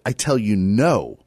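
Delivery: firm refusal, weight on "no"; emphatic. Acted. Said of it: "Emphatic, he says it".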